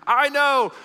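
high, loud mock insistence; retold biker. Biker cuts back at the gecko, loud imitated protest. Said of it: "he's talking to that biker".

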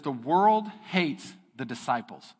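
"The world hates the disciples" read slowly, "world" stressed; slow title reading. Shown as a demonstration. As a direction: announce it like a heading. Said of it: "the title of that area says".

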